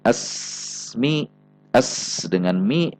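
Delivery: "asmi" with a long s flowing straight into mi; no pause. Shown as a demonstration. Example of sin joined to mim, unbroken. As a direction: draw out the s of "asmi" without a break. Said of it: "Tidak terjeda, contohnya".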